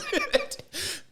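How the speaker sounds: squealing laugh; high-pitched laugh. Real, not acted. Laughing at own joke.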